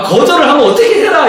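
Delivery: normal talking voice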